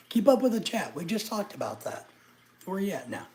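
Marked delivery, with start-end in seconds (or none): 0.1-1.0 louder scolding. Real, not acted. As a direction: raise the voice to tell the chat off.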